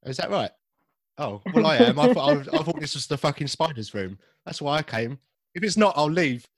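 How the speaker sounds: a hint of Cockney banter; Cockney vampire. Host staying in his Cockney vampire bit, lightly voiced. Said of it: "Oh, that's a classic line".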